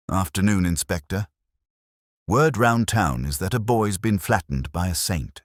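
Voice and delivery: passing on town gossip with relish; gossipy office clerk. Acted. Front office clerk voiced.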